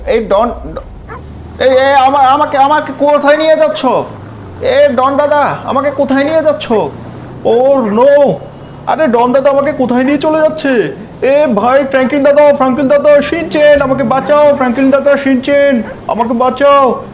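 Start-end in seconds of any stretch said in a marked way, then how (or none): 1.6-10.7 alarmed protest. Acted. Being carried off by truck. 11.2-17.0 loud panicked calls for rescue; cry for help. Acted. Chop being driven off, shouting loudly to Franklin and Shinchen for help.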